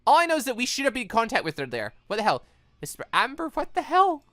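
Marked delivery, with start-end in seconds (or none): none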